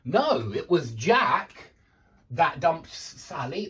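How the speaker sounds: "Jack" punched loud after a firm "No"; emphatic stress landing on "Jack". Shown as a demonstration. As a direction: correct them, leaning hard on "Jack". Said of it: "you put emphasis on that part".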